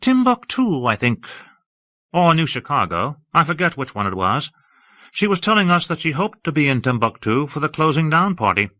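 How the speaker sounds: a lofty, admiring high voice; Hawke, airy and effusive. Acted. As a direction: gush about the city grandly.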